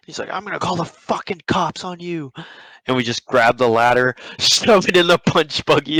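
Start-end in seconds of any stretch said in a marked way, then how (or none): 0.3-2.3 imitated indignant threat, higher in pitch; angry threat. Stepdad threatens police on fleeing pranksters, imitated angry threat. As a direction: warn them off in mock anger.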